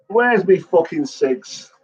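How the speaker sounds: loud, slow call across the room, pitched high. Real, not acted. Looking for his cigarette mid-story, calls out loudly. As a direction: shout out for the missing cigarette.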